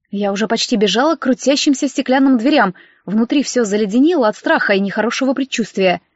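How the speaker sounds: ordinary delivery, nothing marked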